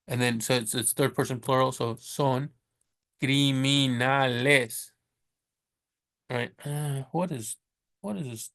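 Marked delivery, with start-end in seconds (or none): 3.2-4.9 criminales, slow, each syllable clear in Spanish; slow teacher model of criminales; careful Spanish word. Shown as a demonstration. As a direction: model criminales slowly for the class. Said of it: "Spanish word modelled slowly".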